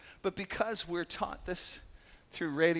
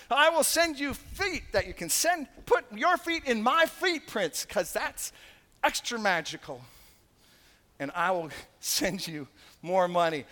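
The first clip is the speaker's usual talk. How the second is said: TV preacher parody. Retold or imitated. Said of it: "Have you seen 'em on T V".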